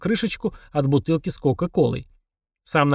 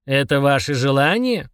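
slow, snide demon voice. Acted. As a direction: drawl it out with a sneer. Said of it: "ехидно спросил Фрундарок".

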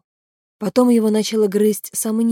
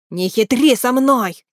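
exclamation; 5 semitones higher, 5 dB louder, slower than usual. Acted. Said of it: "воскликнул Нааль".

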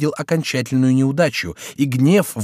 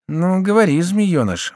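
high-pitched, irritated grumble; testy prompting, pitch raised; grumbling; 7 semitones higher than usual. A narrator's reading. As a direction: grumble impatiently at a pest. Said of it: "ворчал Шико".

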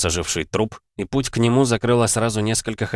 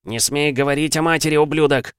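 high, tense warning; angry hiss; 9 semitones higher, 3 dB louder than usual. A narrator's reading. Son defends his mother's name to his father, angry hiss. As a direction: threaten him, voice rising on the insult. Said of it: "прошипел парень".

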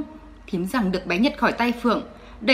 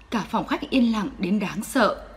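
ordinary delivery, nothing marked

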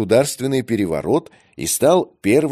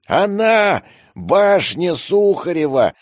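much higher, louder, slow exclamation; excited, choked voice; 9 semitones higher, 4 dB louder, slower than usual. A narrator's reading. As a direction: cry out, voice catching with excitement. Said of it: "севшим от волнения голосом".

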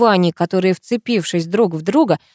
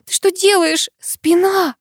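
high anxious protest; high, alarmed concern; worried voice; 11 semitones higher, slower than usual. A narrator's reading. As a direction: fret about his injured back. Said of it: "взволнованным голосом напомнила я".

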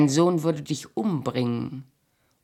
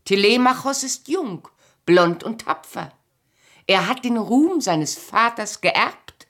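raised, higher and louder, accusing him; angry reproach; 6 semitones higher, 6 dB louder than usual. Acted. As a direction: hurl it at him like a charge. Heated reproach to her husband.

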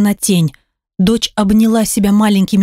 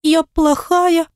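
put-on child's despair; 8 semitones higher, much slower than usual. Daughter, very high, slow.

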